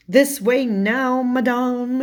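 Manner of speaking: high, slow, drawn-out attendant's call; frog attendant. Retold or imitated. Frog attendant ushering Alice through the chaos, put-on servant voice. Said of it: "this frog per-, attendant is just like".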